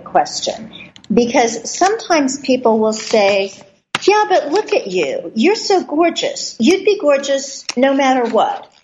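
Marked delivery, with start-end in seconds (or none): 4.1-8.7 higher-pitched, lightly acted gushing objection; mock objector. Host voicing sceptics who flatter the guest, lightly acted objection. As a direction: lightly play someone protesting with a compliment.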